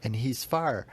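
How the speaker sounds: put-on a child cuddling up to her daddy; imitating daughter. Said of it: "she comes and hugs me".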